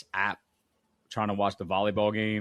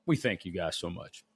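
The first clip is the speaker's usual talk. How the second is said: announcer voice; 4 dB quieter than usual. Shown as a demonstration. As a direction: read the sign-off like an announcer. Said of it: "Are you mocking me?".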